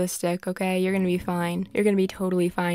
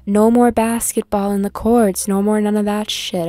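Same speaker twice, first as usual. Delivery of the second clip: excited; 2 semitones higher, 6 dB louder than usual. Real, not acted. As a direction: yell it out like the date is finally heating up. Thrilled reaction to the date.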